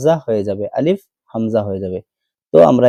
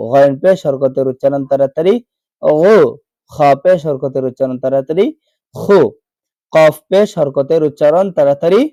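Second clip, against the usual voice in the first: singsong recitation with rising phrase endings; rote spelling drill; 3 semitones higher than usual. Shown as a demonstration. Teacher drilling Arabic letters with pesh for learners, rote singsong. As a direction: drill it in a set tune, then a short syllable.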